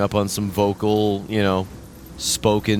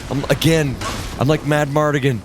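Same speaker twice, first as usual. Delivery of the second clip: whiny complaint; 5 semitones higher than usual. Real, not acted. Whining about wanting sword.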